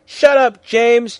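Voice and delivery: high, loud shout. A narrator's reading. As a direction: yell it down at him. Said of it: "Draco's dad shouted".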